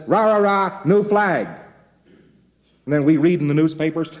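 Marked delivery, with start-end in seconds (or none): 0.1-1.5 hammed-up rah-rah rally chant, a bit louder and higher; a rabble-rouser selling a new flag with a sarcastic cheer; mock patriotic cheer. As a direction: whip up the crowd for the new flag. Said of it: "somebody comes along and says".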